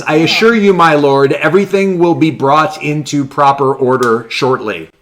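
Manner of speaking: lightly voiced formal servant; a hint of a stiff courtier. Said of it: "what she's saying is".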